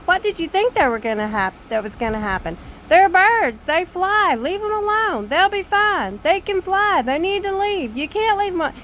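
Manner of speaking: imitating an exasperated husband yelling at his wife. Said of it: "He's yelling at me the whole time".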